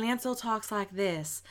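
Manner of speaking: imitated Southern accent, slowed down; mock Southern audiobook voice. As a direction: put on a slow Southern accent. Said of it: "Ansel's voice with a fucking Southern accent".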